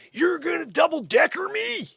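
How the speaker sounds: high, loud indignant shout; outraged shout. Real, not acted. Vlogger scolding the reading line, high indignant shout. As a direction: call out the double read, indignant.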